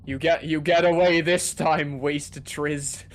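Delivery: loud hammy villain threat; cartoon villain. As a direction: gloat like a cartoon baddie. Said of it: "sound like a cartoon villain".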